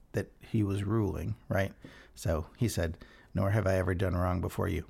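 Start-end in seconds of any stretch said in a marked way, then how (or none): 3.3-4.9 lower, quick, doubting "Nor have I ever done wrong"; wry mock quote; sceptical quote. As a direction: read it like you don't buy it. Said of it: "Well, you kinda did".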